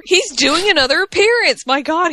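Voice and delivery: high, slow excited cry; excited squeal. Real, not acted. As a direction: gush like a thrilled fan. Fangirl excitement over Taker.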